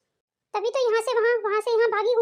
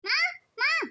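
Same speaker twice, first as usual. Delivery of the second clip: calling out; 5 semitones higher than usual. Acted. Bhabhi calls out for mother-in-law.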